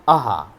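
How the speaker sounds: आहा with a breathy h after the vowel; आहा drawn out so the h is heard; visarga sound shown. Shown as a demonstration. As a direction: drag out आहा slowly to show the visarga. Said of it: "अ को विसर्ग लगा".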